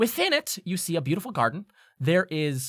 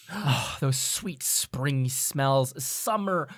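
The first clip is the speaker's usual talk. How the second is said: savouring; much slower than usual. Acted. Savouring smells in garden description.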